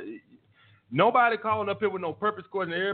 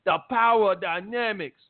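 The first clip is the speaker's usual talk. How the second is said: mocking gullible fans; much slower than usual. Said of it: "and y'all guys like".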